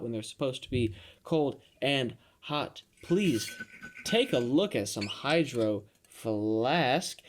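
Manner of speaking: measured, deliberate podcast sponsor pitch; mock ad read. Host pitching an unofficial sponsor to listeners, mock ad read.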